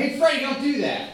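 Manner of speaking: mild mock yell at a kid; mock scolding shout; mom yelling. Mom yelling at wild kid Freddie, mock shout. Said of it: "My mom yells at him".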